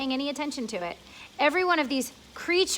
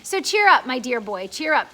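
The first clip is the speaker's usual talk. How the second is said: cheering up; 7 dB louder than usual. Acted. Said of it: "the centipede said".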